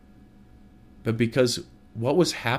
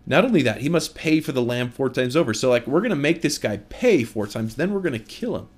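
higher-pitched, mock-indignant sentencing; retold fury; 4 semitones higher than usual. Preacher voicing King David passing sentence on the lamb thief, furious. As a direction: act out a king's outrage, voice lifted. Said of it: "he is furious".

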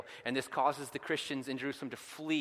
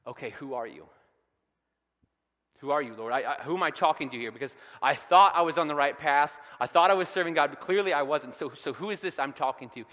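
Saul's desperate question; 2 semitones higher, 8 dB louder than usual. Pretend. Saul voiced, blinded and confused.

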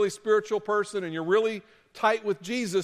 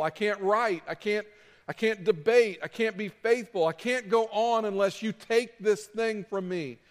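higher, halting, stammering plea; desperate pleading prayer; 3 semitones higher than usual. Retold or imitated. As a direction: beg God as if at the end of your rope. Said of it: "just started pleading with God".

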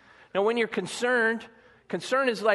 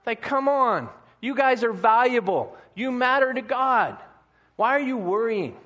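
higher, exasperated urging; mildly frustrated pleading; 4 semitones higher, 3 dB louder than usual. Acted. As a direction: plead with them, a touch exasperated. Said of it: "a little frustration and a little sarcasm".

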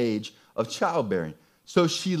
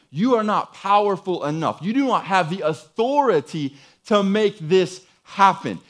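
emphatic accusation; 4 semitones higher, 5 dB louder than usual. Acted. Preacher voices Sarah's unbelief toward God.

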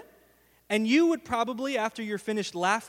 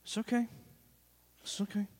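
soft grouchy mutter; muttered under breath; 7 dB quieter, faster than usual. Shown as a demonstration. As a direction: mumble it grumpily to yourself. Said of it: "I just mutter under my breath".

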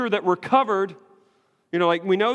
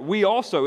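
"We also" leaned on, stress falling on "also"; emphatic "we also"; 3 semitones higher than usual. Shown as a demonstration. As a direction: push "We also" hard, the word "also" weighted. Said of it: "is emphatic".

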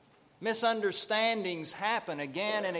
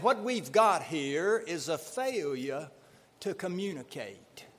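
fake Southern accent. Pastor quotes the movie line to the congregation in a light Southern accent. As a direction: quote Cool Hand Luke in a mild Southern accent. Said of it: "With his fake Southern accent".

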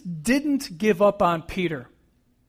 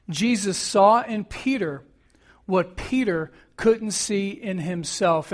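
slow dictation. Shown as a demonstration. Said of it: "this is a fill in the blank here".

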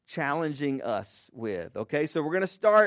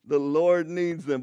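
slow, louder, drawn-out proclamation of "The Lord needs them"; mock grand proclamation; 3 dB louder than usual. Pastor joking about a shopkeeper, hammed-up slow proclamation. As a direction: declare "The Lord needs them" slowly like a magic command. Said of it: "you're gonna have to pay for that, sir".

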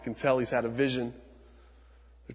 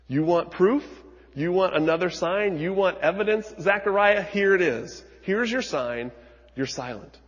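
higher, louder demands building to "Zechariah"; forceful challenge; 5 semitones higher, 4 dB louder than usual. Acted. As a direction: hammer each question at the doubter. Gabriel challenging Zechariah, preaching.

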